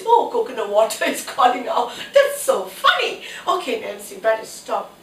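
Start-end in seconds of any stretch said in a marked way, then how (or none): 0.1-1.9 laughing. Real, not acted. Breaks into laughter mid-song. 2.1-3.2 high, laughing at herself. Real, not acted. Laughs at own singing.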